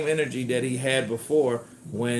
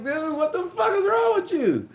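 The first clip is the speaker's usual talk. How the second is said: mock yell. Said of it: "I'm like".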